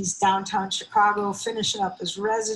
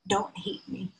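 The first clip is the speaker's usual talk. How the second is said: softer, higher, pleading through tears; a son pleading with his mother, softer; tearful plea; 10 semitones higher, 5 dB quieter than usual. Retold or imitated. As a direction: beg your mother not to hate you. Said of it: "what he uttered through his tears".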